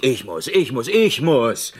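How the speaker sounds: indignant repeat punching ICH; stress on ICH. Acted. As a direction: ICH pushed harder each time. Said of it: "Wieso denn ich?".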